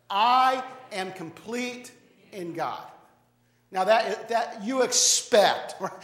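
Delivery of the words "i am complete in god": very slow unison lead; said together. Shown as a demonstration. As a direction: draw out each word for the room. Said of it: "Let's say this together".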